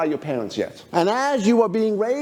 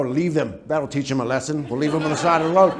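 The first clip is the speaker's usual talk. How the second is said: critical parent; 3 semitones lower than usual. Acted. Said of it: "Critical parents go".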